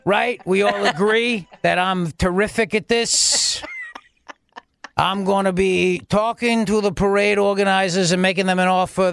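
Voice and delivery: mock Cuomo. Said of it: "his governor voice".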